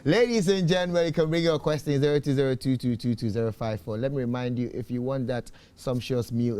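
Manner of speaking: loud, upbeat sponsor ad read; on-air advertisement pitch; radio ad read. Acted. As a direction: sell the tomato mix to listeners. Host reads sponsor ad.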